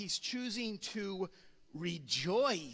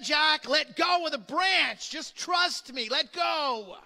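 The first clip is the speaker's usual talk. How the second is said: higher, louder insistent voice from above; God repeating firmly; 6 semitones higher, 7 dB louder, slower than usual. Retold or imitated. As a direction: repeat the command slowly from above. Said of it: "I said".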